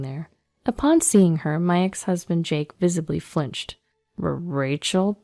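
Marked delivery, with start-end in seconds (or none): 4.2-5.2 flustered stammer. Acted. Ex-husband seeing his girlfriend appear, flustered. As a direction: stumble over the name, caught out.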